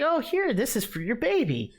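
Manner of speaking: high, overly sweet gift voice; mock sweet. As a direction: chirp it like a polite guest. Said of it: "I was like".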